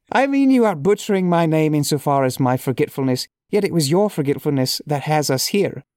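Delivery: reading aloud in a lightly put-on Irish accent; a hint of hammy, amateur Irish brogue; awful Irish accent. Shown as a demonstration. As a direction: try a little bad Irish accent. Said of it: "awful accent".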